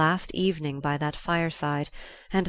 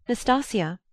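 raised call of a name; 6 semitones higher than usual. A narrator's reading. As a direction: call the maid's name, pitched high. Calling the maid from the door.

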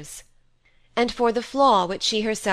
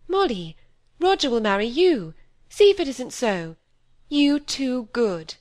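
louder, higher, struck by a new idea; sudden realisation; 5 semitones higher, 4 dB louder than usual. A narrator's reading. Cynthia suddenly tells Molly Roger will marry her, excited. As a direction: burst out as the thought hits.

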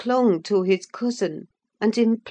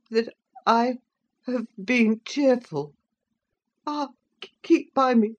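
put-on high, faltering frightened boy; breathless, anxious pleading; panting; 5 semitones higher, 5 dB louder than usual. A narrator's reading. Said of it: "he panted".

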